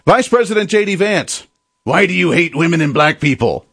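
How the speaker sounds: snide, accusing question mocking the hosts; mock accusatory question. Host mocking the guest with a snide question. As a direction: sneer the question like a hostile host. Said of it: "that's essentially what we saw".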